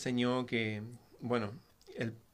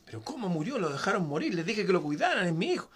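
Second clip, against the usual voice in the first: más agudo y más fuerte, reclamando; reclamo dolido; 7 semitones higher than usual. Acted. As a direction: grita su dolor a los soldados. Rey reclama por su hijo. (el rey reclama a sus soldados, dolido y fuerte)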